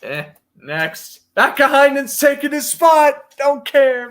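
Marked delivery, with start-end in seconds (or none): 1.3-4.1 mock dismissive. Joking dismissal of a player.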